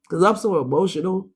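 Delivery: blocked nose, stuffy voice. Real, not acted. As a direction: talk through a stuffy nose. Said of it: "I'm talking stuffy again".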